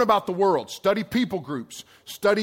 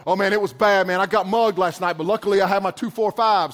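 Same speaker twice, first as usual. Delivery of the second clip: crazy guy; 5 dB louder than usual. Retold or imitated. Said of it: "He said".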